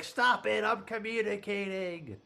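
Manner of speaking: high, lightly put-on scolding; mock Amy Adams. Amy Adams telling the general off, high mock voice. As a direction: snap back as a busy scientist. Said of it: "Amy Adams like".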